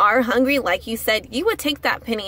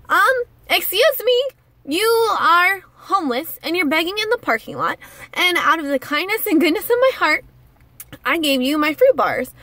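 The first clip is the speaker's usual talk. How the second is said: indignant retort; 4 semitones higher than usual. Retold or imitated. Imagined retort to the picky homeless man, indignant.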